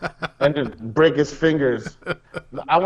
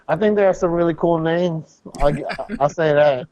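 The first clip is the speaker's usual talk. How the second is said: muffled through a rubber mask; talking behind a hot mask; inside a rubber mask; 4 semitones higher than usual. Real, not acted. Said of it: "This mask is hot as hell".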